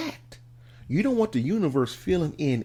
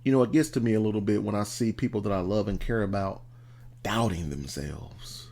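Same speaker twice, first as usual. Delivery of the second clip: emotional; 6 semitones lower, 3 dB quieter than usual. Real, not acted. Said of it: "I'm getting emotional".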